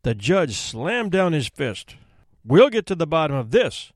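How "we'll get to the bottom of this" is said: firm promise. Acted. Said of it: "he promised".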